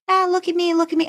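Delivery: high, preening look-at-me voice; squealing mock bragging; mock show-off. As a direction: ham up a vain showboat. Mocking the show-off character.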